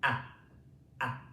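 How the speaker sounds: ah ah ah, each from the back of the throat, mouth wide; open ah vowel. Shown as a demonstration. Teacher models the vowel for the class, open ah. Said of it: "The whole mouth is open".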